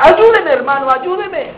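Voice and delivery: pleading for help, frantic; desperate begging. Acted. Brother begging his brother to help him, desperate. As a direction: beg him, voice rising on the last plea.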